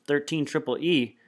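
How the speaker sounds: rising high, mocking disbelief; smirking disbelief. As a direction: sneer at the huge shoe size. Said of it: "she's got a little smirk".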